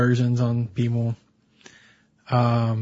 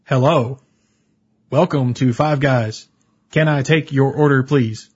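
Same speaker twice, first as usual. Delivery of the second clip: slow, stiff, overly formal greeting; robotic cashier impression; slower than usual. To the customer at Five Guys, stiff robotic cashier voice. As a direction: mimic the stone-faced cashier word by word. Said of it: "I will give my best impression".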